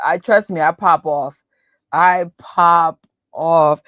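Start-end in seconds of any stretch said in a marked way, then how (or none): 1.9-3.8 slow, louder, tough New York attitude; popping off. Shown as a demonstration. Showing her tough side, slow and louder. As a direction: drag it out like you're ready to fight. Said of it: "And then I have two tones".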